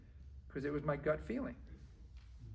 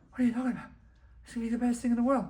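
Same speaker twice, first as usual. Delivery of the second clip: higher, louder disbelief; incredulous protest; 7 semitones higher, 5 dB louder, much faster than usual. Acted. To a partner backing out of the deal, incredulous protest. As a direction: argue back in raised-pitch disbelief.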